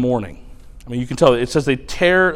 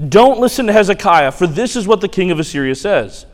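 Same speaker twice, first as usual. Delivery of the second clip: booming royal proclamation; 3 semitones higher, 3 dB louder than usual. Acted. Assyrian spokesman shouting to the people on the wall, booming. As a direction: proclaim it at the top of your lungs. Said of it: "at the top of his lungs".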